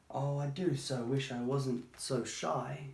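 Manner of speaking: slow, mournful wish, only a touch of sobbing. Acted. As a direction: sigh it out slowly, sadly. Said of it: "she sobbed".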